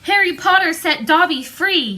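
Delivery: high, squeaky house-elf, amazed; shrill elf. A narrator's reading. Dobby gazing up at Harry, high shrill elf voice. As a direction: elf marvelling at his freedom.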